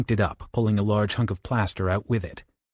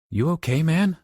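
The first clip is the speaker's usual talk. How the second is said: concerned; 7 semitones higher, 3 dB louder than usual. Acted. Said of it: "Johnny asked".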